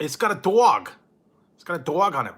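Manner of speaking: excited. Real, not acted. Excited about can design.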